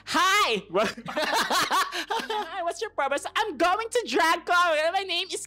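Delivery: high, loud show-off introduction; hammed-up eager greeting. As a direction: oversell yourself to the visa officer. Overeager interview answer acted out.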